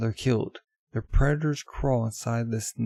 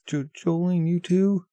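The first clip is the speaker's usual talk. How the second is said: shocked cry; 6 semitones higher, 3 dB louder, slower than usual. Acted.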